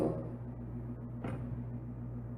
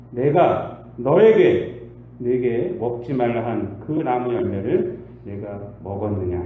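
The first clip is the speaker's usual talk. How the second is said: stern God; 5 semitones lower, 4 dB louder, slower than usual. Acted. God questions Adam sternly.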